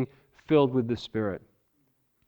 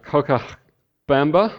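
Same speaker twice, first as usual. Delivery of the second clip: put-on Cochabamba said with an American accent, rising; American accent Spanish; 7 dB louder, slower than usual. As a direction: Cochabamba carefully sounded out, American-style. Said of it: "forgive my Spanish pronunciation".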